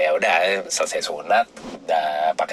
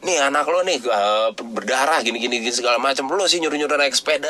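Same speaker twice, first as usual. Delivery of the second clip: imitated mother's higher-pitched complaint; mock scolding; 7 semitones higher than usual. Mother blaming father for the bleeding, mock scolding. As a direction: lay the blame, lightly acted.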